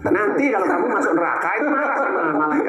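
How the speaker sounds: talking through laughter; laughing. Real, not acted. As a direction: chuckle through the joke. Joking about anger in hell.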